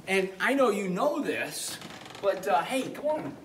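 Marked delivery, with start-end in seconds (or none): 2.6-3.4 calling a dog. Real, not acted. Calling dog, high pitch.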